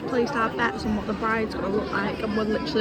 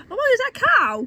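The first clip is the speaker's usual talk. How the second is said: sudden surprised gasp, higher; 12 semitones higher, 7 dB louder than usual. Real, not acted. Spots a cow.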